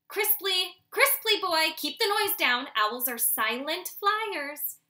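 loud, bossy father owl; stern father. Acted. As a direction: coach him firmly like a strict dad. Father scolds noisy branching.

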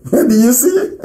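slow, laughing do you see; laughing rhetorical taunt; mocking laugh. Real, not acted. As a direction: gloat through a chuckle.

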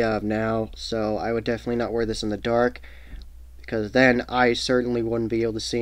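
through fabric over mouth; speaking inside full-head hood; through a face mask. Real, not acted. Seen 5: Black stretch fabric covers the whole head and mouth throughout the labelled words.

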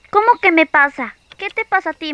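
loud, indignant question. Acted. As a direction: throw the question back at him. Indignant reply to boyfriend.

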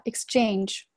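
exchange with a softened, voiced sound after the S. Shown as a demonstration. Teacher demonstrates voicing, exchange softened after its S. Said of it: "s后面清辅音浊化".

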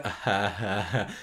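awkward stilted chuckle, mocking it; hammed-up awkward "ah ha ha ha"; bad fake laugh. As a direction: imitate a cringey forced laugh. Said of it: "his laugh is so bad".

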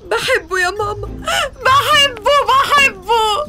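comic wailing. Acted. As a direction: cry out the love, sobbing and laughing. Bride wailing for her groom. (نحيب كوميدي مبالغ فيه)

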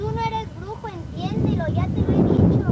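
building to a furious shout at her son; angry scolding. Acted. Mother scolding her son who plays brujo, building angry shout. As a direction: scold him harder with each phrase until you yell.

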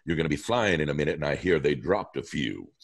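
lightly voiced sly villain; a hint of a taunting villain, quick; Green Goblin voice. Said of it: "as the Goblin".

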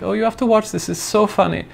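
high-pitched imitation of an excited friend; amused female friend. Friend urging him to watch a funny video, mock excited. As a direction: pitch it way up, mimicking her eagerness.

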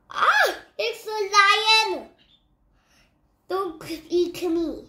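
high, loud frightened cry; scared donkey. Acted. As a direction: shriek it out in fright. Donkey frightened by lion skin.

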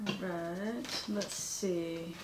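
soft near-whisper reading to herself; hushed, half-whispered reading; quiet murmur. Real, not acted. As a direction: mumble the label under your breath. Reading label softly to herself.

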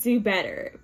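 sassy demand. Retold or imitated. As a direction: snap it like a fed-up date. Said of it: "that energy where it's like".

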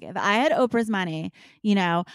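building from a lifted voice to a full, loud showman shout; game-show host handing out prizes, growing to a roar; Oprah-style giveaway. Retold or imitated. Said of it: "I'm like".

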